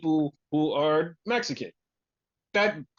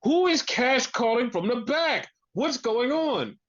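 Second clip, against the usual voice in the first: higher, mock commentator's puzzlement; imitating Tony Schiavone; 5 semitones higher than usual. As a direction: lightly imitate a baffled wrestling commentator. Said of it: "And Tony Schiavone goes".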